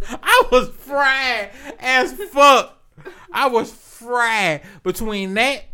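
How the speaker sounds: loud, slow laughing talk; laughing hard. Real, not acted. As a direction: laugh through the words. Laughing loudly at own story.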